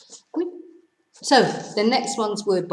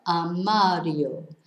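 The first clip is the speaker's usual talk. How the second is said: "armario" stressed on MA, ar-MA-rio; slow "armario", stretching the second syllable; natural stress; slower than usual. Shown as a demonstration. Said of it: "Their stress is in the correct place".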